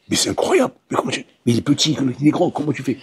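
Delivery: cri d'étonnement aigu puis plus doux; s'étonner comme un naïf; paysan stupéfait. Acted. (paysan stupéfait devant le tour)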